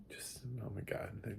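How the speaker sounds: breathy hushed oh my God; whispered aside; awed whisper. Retold or imitated. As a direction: drop to a whisper, starry-eyed. Gushing over the loving couple.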